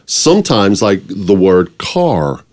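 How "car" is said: CAR with a full American r; American accent. Shown as a demonstration. Actor showing how Americans say car, American accent. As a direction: say CAR drawn out, American style. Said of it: "realize how they actually speak".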